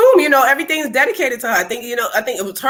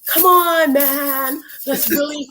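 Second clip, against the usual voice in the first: imitating white cousin; 5 semitones higher than usual. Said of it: "she asked, what was her cousin".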